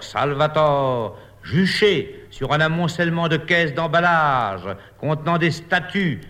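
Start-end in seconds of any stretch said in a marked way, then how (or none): 0.0-1.2 slow echoing repeat; declaiming. Acted. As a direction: proclaim it again, slower. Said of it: "déclame".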